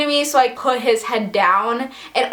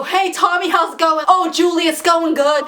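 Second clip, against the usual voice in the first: higher-pitched imitation of kids calling across a bus; mock yelling; 5 semitones higher than usual. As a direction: call out like rowdy kids, not at full volume. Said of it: "yell at other people and go".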